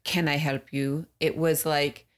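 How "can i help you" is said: slow, unenthused customer-service question; unwelcoming greeting. Retold or imitated. Friend copying the rude front desk clerk, unwelcoming. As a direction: imitate a clerk with no welcome, drawn out. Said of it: "you could have said, instead of".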